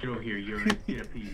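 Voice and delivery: low, hungry monster growl; deep monster voice. Acted. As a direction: lurk and demand a piece, deep. Same monster voice.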